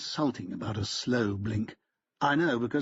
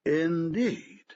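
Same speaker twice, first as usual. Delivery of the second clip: "Indeed" higher, lifting at the end; rising Indeed; 5 semitones higher than usual. A narrator's reading. Lawyer questioning Fincham's claim, rising Indeed. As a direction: let "Indeed" climb in doubt.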